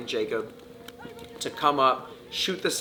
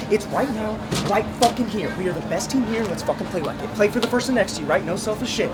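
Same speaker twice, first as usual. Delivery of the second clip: higher, loud rallying cries; hyped-up shouting; 8 semitones higher, 5 dB louder than usual. Real, not acted. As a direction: keep the team fired up. Coach hypes team in huddle.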